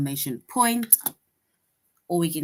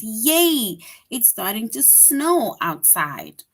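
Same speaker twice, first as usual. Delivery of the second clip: mild excitement; 2 semitones higher, 4 dB louder, slower than usual. Shown as a demonstration. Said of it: "That is an exclamation point".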